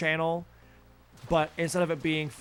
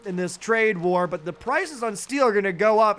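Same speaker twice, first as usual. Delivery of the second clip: mock finance pundit; 3 semitones higher than usual. Mocking CNBC commentators on the trade war, a cheery pundit voice. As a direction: sell the bad news as a good investment tip. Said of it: "same tone of voice as".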